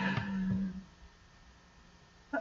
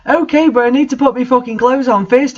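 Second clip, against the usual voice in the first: higher, hammed-up angry shout; mock angry shout; 4 semitones higher, faster than usual. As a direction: fake fury, pitched up, no real volume. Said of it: "I shouted angrily".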